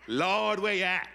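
loud whining plea to the Lord; mock complaint. Preacher voicing a grumbling believer, loud plea. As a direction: cry out like a fed-up believer. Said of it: "then you're gonna get".

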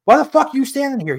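high, fast exasperated demand; loud retold argument; acted angry retort. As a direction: fire back in mock outrage. Acted shouting match in dream.

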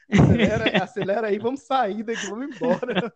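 loud urging to hurry up; urgent shout. Retold or imitated. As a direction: call out to speed up. Retold urging to play faster.

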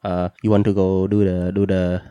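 put-on light Vietnamese-accented tour guide; lightly voiced Vietnamese tour guide. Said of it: "what happened to your accent?".

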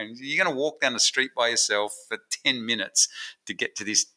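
normal talking voice

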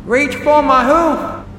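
high, loud, slow yell over the storm; big sister yelling down the well in a storm. A narrator's reading. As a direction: yell so she hears over the wind. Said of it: "Applejack yelled".

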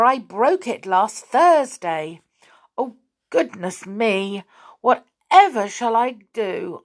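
put-on fussing old woman. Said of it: "fussing about".

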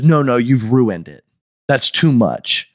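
mock fussy customer, drawn out toward the end; slow down to scold condescendingly; slow-ass talking. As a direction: imitate a deliberate, picky complaint. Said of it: "like, slow ass talking".

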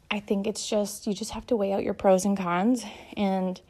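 slightly out of breath while talking. Real, not acted. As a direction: talk a bit winded from doing laundry. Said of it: "I'm getting out of breath".

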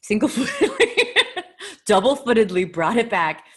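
high loud words breaking into laughter; laughing. Real, not acted. Joking with Ryan about knee socks, laughing. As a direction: squeal it high and laugh through.

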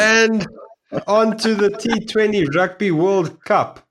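announcer voice. Pretend. Mock announcer segue to cricket.

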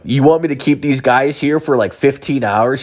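acted incredulity; incredulous objection. Acted objection to dad's order.

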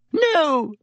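a high, terrified cry of No; panicked shriek. Acted. Pettigrew shrieking at his friends' verdict, high and terrified.

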